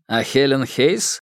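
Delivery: slow, mocking smirking question. A narrator's reading. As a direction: needle him with a grin. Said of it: "ухмыльнулся Колбин".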